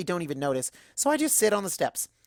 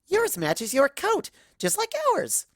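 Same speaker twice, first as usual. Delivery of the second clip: much higher and drawn-out, bursting with delight; giddy gush; 13 semitones higher, slower than usual. Acted. Excited pony gushing over matching crowns, high slow squeal. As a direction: squeal it like the best news ever.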